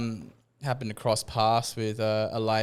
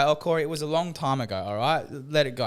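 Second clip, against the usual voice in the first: mock dismissive; 5 semitones higher than usual. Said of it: "And people say".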